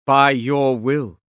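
slow, loud, formal reply; bow to your lord's will; deferential servant. Acted. Servant answering his lord.

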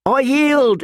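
put-on terrified boy crying out far up in his voice; shrilled. A narrator's reading. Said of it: "he shrilled".

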